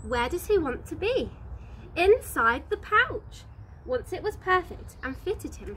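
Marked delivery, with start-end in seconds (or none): 2.0-3.4 sulky joey voice. A narrator's reading. Sulky wallaby answers question.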